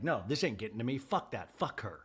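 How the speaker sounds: low, soft dismissive retort; mock tough front. Mary hiding that it affects her, mock tough front. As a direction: brush it off as if untouched. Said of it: "Mary has this tough front".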